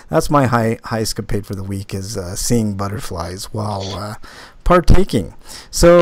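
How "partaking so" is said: coy. Acted. Comic coy euphemism.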